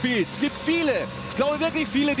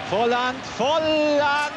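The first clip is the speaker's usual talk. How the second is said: excited name call; 2 semitones higher, much slower than usual. Real, not acted. Cheering the goalscorer's name.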